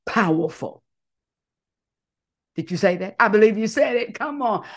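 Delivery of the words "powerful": slow, louder, each word planted; bold declaration. Shown as a demonstration. Leader declaring an affirmation for the crowd to repeat. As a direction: proclaim it so they echo it. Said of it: "So repeat after me".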